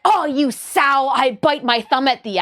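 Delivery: hammy olde English insult; mock Shakespearean.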